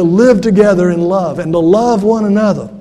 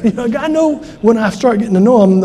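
laughing; 3 semitones higher than usual. Retold or imitated. Laugh heard in Tom quote.

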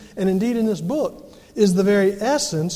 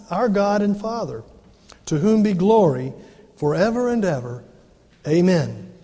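scripture reading. Acted. Preacher reading Galatians to the congregation, solemn and measured. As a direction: read the Bible passage out with weight. Reads Galatians aloud in sermon.

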